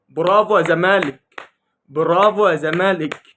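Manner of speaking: loud, emphatic mock bravo; mock cheering. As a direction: hail the losers with exaggerated praise. Mock congratulation to losing team. (تهنئة ساخرة بصوت عالي)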